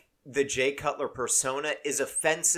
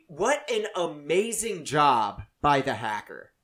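ordinary delivery

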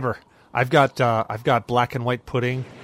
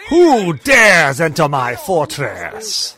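booming villain voice; 6 dB louder, much slower than usual. Pretend. Mocking the Grinch on screen.

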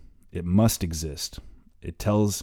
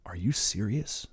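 gasping disbelief; 2 semitones higher, 5 dB quieter than usual. Acted. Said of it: "she gasps".

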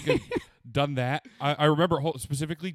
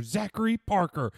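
mom calling name; 6 semitones higher than usual. Retold or imitated. Mom calling him in parking lot.

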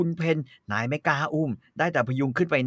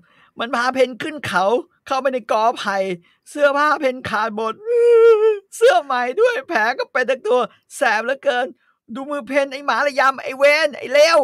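crying, shouting woman; 11 semitones higher, 5 dB louder than usual. Acted. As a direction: wail and curse the dog through tears. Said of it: "เกือบพูดไม่เป็นคำ แล้วตะโกนว่า".

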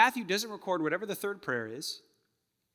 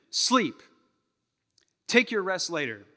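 ironic command; 3 semitones higher, 5 dB louder than usual. Acted. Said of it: "that doesn't make sense".

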